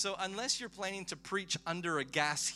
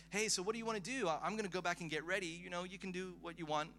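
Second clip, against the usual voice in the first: breezy, higher quote of a laid-back guy; lightly voiced casual host; 5 semitones higher than usual. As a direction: lightly imitate his offhand, easygoing offer. Voicing a casual guy's offer.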